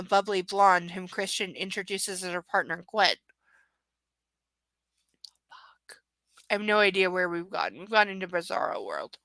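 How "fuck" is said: barely audible, voiceless whisper; whispered exasperated expletive; whispered curse. Real, not acted. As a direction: swear under your breath. Exasperated aside while reading.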